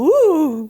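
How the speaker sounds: small drawn-out spooky "woo"; little ghostly woo. Shown as a demonstration. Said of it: "I was just putting on a little".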